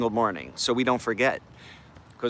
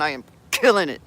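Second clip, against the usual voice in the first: a bit faster, through a clenched jaw; 2 semitones higher, faster than usual. Shown as a demonstration. Showing the chat how to say the affirmation, jaw clenched. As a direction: grit your teeth and spit it out. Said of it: "clench your jaw a little bit and get a nice curse on".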